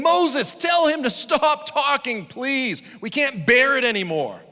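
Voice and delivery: high, loud frightened pleading; begging people. Retold or imitated. Israelites begging Moses to stop God, high and pleading. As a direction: beg Moses in terror. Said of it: "The people were begging".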